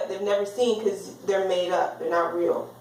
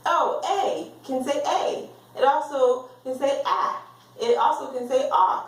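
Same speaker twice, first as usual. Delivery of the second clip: put-on child reciting; 5 semitones higher than usual. Child reciting letter sounds.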